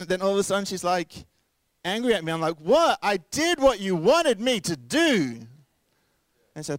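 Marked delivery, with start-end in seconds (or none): 2.6-5.4 high, loud, slow defensive protest; startled husband protesting to his wife, hammed-up; mock indignant outburst. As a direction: ham up the wronged husband.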